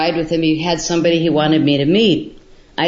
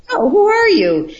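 high, startled exclamation; astonished question; 12 semitones higher, 3 dB louder than usual. Retold or imitated. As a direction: jump up in pitch, caught off guard. Realising who the host is.

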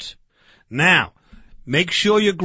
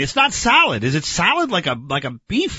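exasperated bafflement. Acted. Barbecue man baffled by soybeans, exasperated. Baffled argument over soy burgers.

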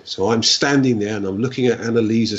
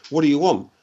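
imitating a gruff Glaswegian, pitched higher; gruff Glaswegian accent; 4 semitones higher, faster than usual. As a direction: answer the door in a rough Glasgow accent. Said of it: "gone in his gruff Glaswegian accent".

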